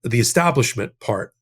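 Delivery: establishment given the main weight; stress on establishment. Shown as a demonstration. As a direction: lean on the word establishment. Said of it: "We put the emphasis on".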